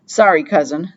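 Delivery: urgent. Acted.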